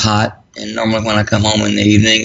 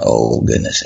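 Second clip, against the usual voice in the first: dismayed thought; slower than usual. Real, not acted. Inner thought during wife's stroke.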